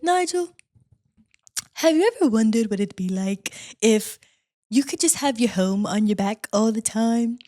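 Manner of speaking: imitating a congested, accented slug. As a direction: put on a lightly stuffed-up slug voice. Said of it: "her accent always makes her sound, like, congested".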